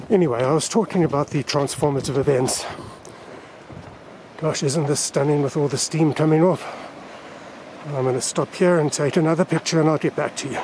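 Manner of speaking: talking through a face mask; words muffled by cloth mask. Real, not acted. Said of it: "I'm sorry if my voice is muffled".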